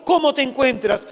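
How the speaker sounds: a mother panicking on the phone; anxious mother. Retold or imitated. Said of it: "tu hijo te llama desesperado". (madre angustiada, voz más aguda y fuerte)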